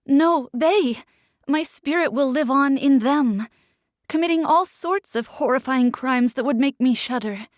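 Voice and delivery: high, loud, desperate plea; anguished pleading. Acted. Captive pleading with Bay, high and loud. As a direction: make him feel your fear.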